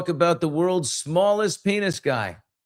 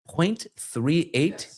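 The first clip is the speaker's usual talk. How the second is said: slow disbelief; 3 semitones higher, much slower than usual. Real, not acted. Incredulous at tiny measurement.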